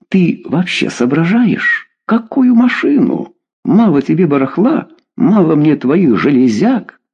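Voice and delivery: scolding. A narrator's reading. Wife scolding husband over junk.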